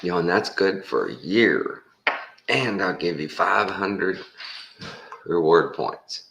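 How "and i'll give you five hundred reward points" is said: high, eager salesman pushing for the card; pushy salesman. Retold or imitated. Salesman pushing the caller for a credit card, high and eager. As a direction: press hard for the sale in a high voice. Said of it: "salesman pushing the sale".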